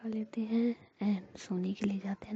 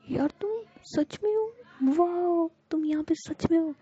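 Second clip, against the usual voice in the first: much higher, louder, thrilled disbelief; amazed delight; 9 semitones higher, 5 dB louder than usual. Acted. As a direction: squeal it like you can't believe she's there. Friend really appeared, amazed. (बहुत ऊँची, उत्साहित हैरानी)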